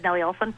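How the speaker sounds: "Olson" with the s lisped as th; childhood lisp. Shown as a demonstration. Actress shows how she would have said Nellie Olson, lisped "Olson". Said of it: "I had that lisp".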